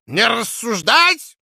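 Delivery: slow, high, loud reedy command; old man's shout. Acted. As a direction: yell it like a tipsy old boss. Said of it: "крикнул старческий голосок".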